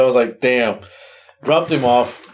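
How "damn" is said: muttered wry damn; quiet resigned damn. Retold or imitated. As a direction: shrug it off to yourself. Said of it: "but I was laughing to myself".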